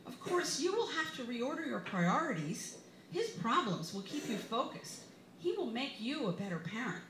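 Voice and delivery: lightly high, kindly lecturing friend; hint of a wise friend reassuring; a touch of sweet advice voice; imitating Peggy. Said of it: "She is unfailingly wise and kind".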